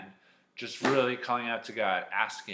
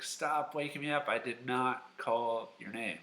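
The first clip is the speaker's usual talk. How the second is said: higher, mildly cross complaint; grumpy; 3 semitones higher than usual. Acted. Woken Eli scolding Samuel, mildly grumpy. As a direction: grumble it, slowing on the denial. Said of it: "Eli was very grumpy and very tired".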